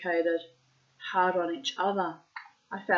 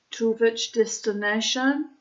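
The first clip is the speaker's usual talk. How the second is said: put-on Russian accent; 4 semitones higher, 4 dB louder than usual. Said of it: "I'm putting in the Russian accent".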